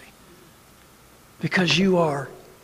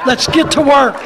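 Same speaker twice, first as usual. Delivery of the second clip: louder, higher rallying cry; loud rallying call; 7 semitones higher, 8 dB louder than usual. Acted. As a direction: punch out the call to action.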